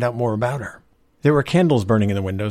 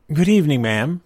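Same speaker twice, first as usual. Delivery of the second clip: higher, louder courteous greeting; polite; 7 semitones higher, 5 dB louder than usual. A narrator's reading. Young man posing as salesman to mother, politely. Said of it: "he said politely".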